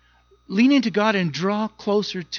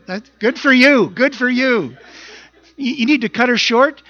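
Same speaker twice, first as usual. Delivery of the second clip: raised, pushy urging, louder and higher; impatient disciples; 6 semitones higher, 7 dB louder than usual. Retold or imitated. Disciples pushing Jesus to end the sermon, urgent and raised. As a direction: press Jesus to wrap it up.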